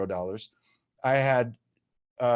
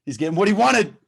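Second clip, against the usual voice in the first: much higher and louder, real excitement; can't help getting fired up; excited; 7 semitones higher, 6 dB louder than usual. Real, not acted. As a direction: speaker catching himself getting hyped, laughing at himself. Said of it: "I promised I wouldn't get excited".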